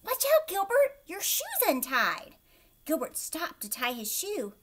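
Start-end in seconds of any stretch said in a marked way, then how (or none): 0.0-2.4 put-on a high, loud little girl tricking a friend; high loud voice with a prank in it; Patty's voice. A narrator's reading. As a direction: call it out like a sly classmate.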